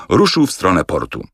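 ordinary delivery

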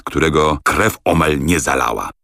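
usual speaking voice

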